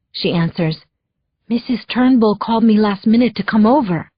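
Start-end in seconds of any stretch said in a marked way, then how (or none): 1.5-4.1 put-on a light Spanish accent, answering the phone; lightly accented hello, picking up; Maria's accent. The housekeeper picks up, in a light Spanish accent. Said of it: "her accent".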